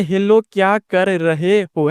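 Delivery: हेलो, क्या कर रहे हो — each word read out slowly and clearly; slow reading aloud. Shown as a demonstration. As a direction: read the sample chat line slowly, like dictation. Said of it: "यहाँ पर दोस्तों क्या लिखा है?". (धीरे-धीरे साफ़ पढ़कर सुनाना)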